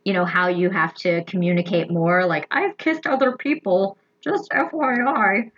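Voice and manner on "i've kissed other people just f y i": lightly raised, breezy confessional voice; casual warning, slightly higher; covid voice. Pretend. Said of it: "That's my, uh, covid voice".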